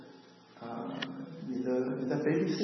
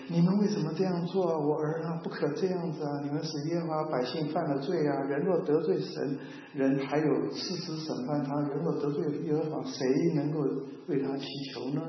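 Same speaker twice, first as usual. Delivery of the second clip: Eli's mild rebuke, a bit higher and half-hearted; lightly brushing it off; 3 semitones higher than usual. Retold or imitated. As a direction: scold the sons without real force, like it barely matters. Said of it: "这个轻描淡写的说".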